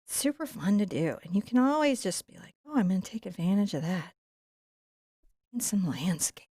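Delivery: gentle, unhurried painting-show murmur; soothing landscape voice. Acted. Painter talking viewers through bushes, in a soothing seventies voice. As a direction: ease viewers along like a calm TV painter. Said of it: "you went all seventies soothing voice on us".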